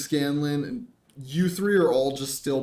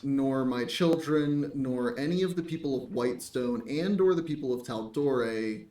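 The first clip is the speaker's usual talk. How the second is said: mock pleading; 4 dB quieter than usual. Scanlan kneeling, begging forgiveness.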